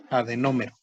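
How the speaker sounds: "Adenómero" stressed on NÓ, falling after it. Shown as a demonstration. Teacher models a new term, stress on the O. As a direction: lean on the first O of "Adenómero". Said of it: "con acento en la O".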